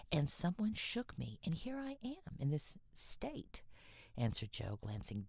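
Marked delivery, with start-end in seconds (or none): 0.1-3.6 rising, slow wail of dismay. A narrator's reading. Jo to Laurie about her ruined dress, high dismayed voice.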